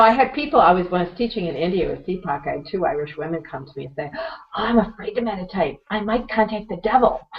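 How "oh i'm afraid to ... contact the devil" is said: raised, mock-fearful voice; mildly hammed-up fright; imitated alarm. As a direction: voice a worried student's exaggerated dread. Imitating Irish women fearful of meditating.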